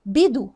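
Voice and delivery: "بدو" said with a short weakened vowel after b; wrong vowel. Shown as a demonstration. Teacher shows what not to say, vowel altered. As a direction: lose the long round u in "بدو". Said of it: "وما ينفعش أقول".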